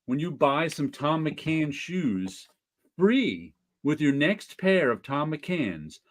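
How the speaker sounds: put-on slow old-timey announcer; vintage ad read. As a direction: read it like a fifties ad. Reads an old baseball ad.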